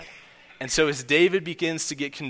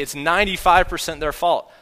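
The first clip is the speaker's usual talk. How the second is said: mock self-justifying; 4 semitones higher, 6 dB louder than usual. Mock arguer's excuse.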